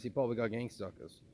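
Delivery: lightly imitated Boston accent. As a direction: put on a bit of Boston. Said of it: "he would do a Boston accent".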